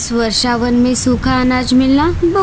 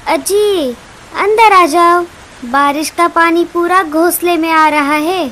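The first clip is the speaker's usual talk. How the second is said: calling out; 4 semitones higher, 4 dB louder than usual. Acted. Wife calls husband from rain.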